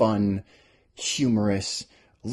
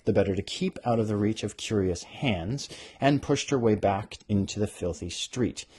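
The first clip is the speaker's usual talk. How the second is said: lightly voiced book reading; story narration; 2 semitones higher than usual. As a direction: read the passage like a storyteller. Reads her novel aloud.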